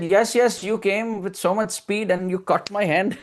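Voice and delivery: lightly voiced little boy accusing his mother; Krishna. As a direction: pipe up with a child's grievance. Child Krishna complaining to his mother.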